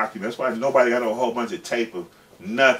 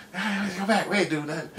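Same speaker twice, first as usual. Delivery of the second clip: higher, laughing through the words; 9 semitones higher, 4 dB quieter than usual. Retold or imitated. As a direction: chuckle it out as you talk him back. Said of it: "He laughing and shit".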